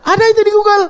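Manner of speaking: high, loud laughing delivery. Real, not acted. Preacher laughing at his Google search, amused. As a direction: laugh through it.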